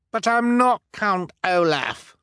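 high desperate protest; crying out. Acted. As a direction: plead your innocence, panicked. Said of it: "the man cried".

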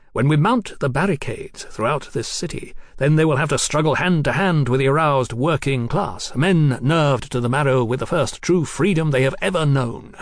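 mildly impassioned platform speech; rousing Marquis. Acted. Marquis foretelling barricades to Mallory, rousing and emphatic. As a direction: roll on towards a stirring finish.

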